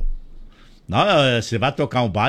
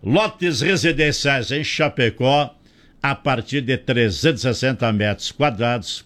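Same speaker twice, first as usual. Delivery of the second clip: ad read; 4 semitones lower than usual. Real, not acted. Reads a sponsor's advert.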